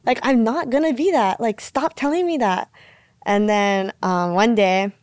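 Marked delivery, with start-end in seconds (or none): 0.0-2.7 mildly exasperated retort, pitched higher; retold frustrated protest. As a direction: push back, fed up, in a raised pitch. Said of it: "so frustrated and mad hearing that".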